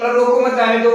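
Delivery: रोको मत जाने दो read straight through with no break; run together without pause. Shown as a demonstration. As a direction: say रोको मत जाने दो as one unbroken string. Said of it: "यों की यों इसी गति में पढ़". (रोको मत जाने दो बिना रुके, एक साँस में)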